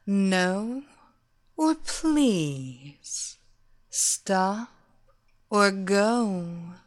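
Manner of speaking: slow, sultry villainess luring her victim; seductive hypnotist. Acted. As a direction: purr it like a temptress casting a spell. Seductress taunts her captive.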